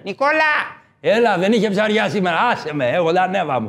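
a hint of a rough fisherman yelling a name; mild fisherman shout; fisherman calling out. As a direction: call across the harbour, then brush him off. Fisherman voiced calling Nikolas.

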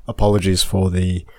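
blocked nose from a cold; nasally voice. Real, not acted. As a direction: speak through a stuffy nose. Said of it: "nasally voice".

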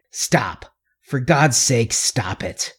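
faint, numb plea to stop; dazed and sick. A narrator's reading. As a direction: say it quietly, like you feel ill. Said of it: "He sounded dazed and sick".

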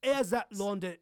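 lightly imitated London accent. Shown as a demonstration. Host demonstrating the actor's accent, mild London accent. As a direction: show a hint of London speech. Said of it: "That, that London accent like that".

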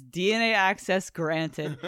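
slow, evenly spaced computer voice; robot voice. Retold or imitated. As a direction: read it like a robotic announcement. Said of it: "a little robotic voice says".

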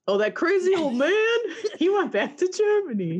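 put-on a laughing, joking German accent; mock German accent. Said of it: "Is that your German accent?".

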